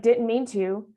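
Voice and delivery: tossed off lightly in passing, mock careless; a quick careless "Didn't mean to" as if walking on; flippant brush-off. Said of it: "I can't just be like".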